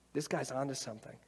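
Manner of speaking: brisker, convinced repeat. Retold or imitated. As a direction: pick it up and nod along. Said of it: "you're like".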